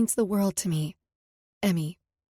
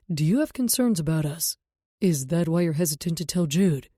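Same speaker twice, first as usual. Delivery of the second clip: low tender lover voice; 4 semitones lower, 3 dB louder than usual. A narrator's reading. Knox voiced throughout.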